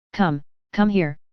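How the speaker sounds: slow, commanding summons; imperious. Acted. Lisa summoning the wounded Alexei to her, imperious. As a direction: order him over like a little empress. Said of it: "she cried, imperiously".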